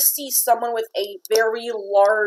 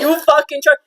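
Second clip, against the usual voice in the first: rough, serious half-orc warning; gruff orc growl; 4 semitones higher, 4 dB louder, faster than usual. Acted. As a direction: growl it like a scarred orc cook. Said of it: "He's pretty damn serious when he says that".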